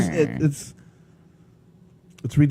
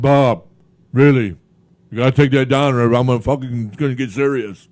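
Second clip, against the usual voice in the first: put-on whiny man child; 4 semitones lower than usual. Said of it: "He sounds like a big baby".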